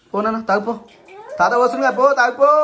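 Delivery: high coaxing. Real, not acted. Coaxing toddler to drink medicine.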